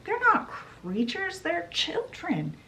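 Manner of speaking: high-pitched, indignant daughter; acted protest. Daughter standing up to her mother over the children, high indignant protest.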